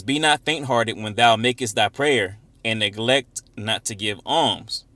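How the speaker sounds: slow, deliberate verse reading; scripture reading. Acted. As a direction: read the verse out slowly and firmly. Reads scripture aloud.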